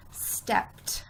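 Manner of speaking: "Stepped" ends in a crisp t sound. Shown as a demonstration. Teacher showing the t ending of stepped. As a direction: land the final t of "Stepped". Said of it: "it makes a t sound at the end".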